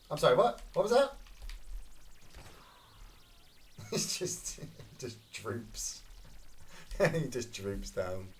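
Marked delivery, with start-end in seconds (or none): 1.2-8.3 soft breathless laughter through words; cracking up at a drooping body; laughing. Real, not acted. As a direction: giggle helplessly.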